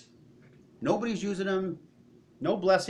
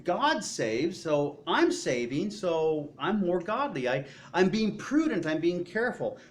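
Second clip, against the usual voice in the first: hoarder voice; 3 semitones higher, 3 dB louder than usual. Acted. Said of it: "people that are hoarding say".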